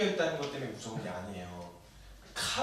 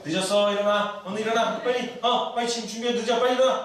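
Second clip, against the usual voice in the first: higher, hurried imitation of a nagging parent; mock urgent wake-up; 7 semitones higher, 6 dB louder than usual. Parent waking a child before dawn, mock urgent. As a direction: play a parent urgently rousing a sleeper. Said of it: "막 이렇게 해서 깨우신단 말이에요".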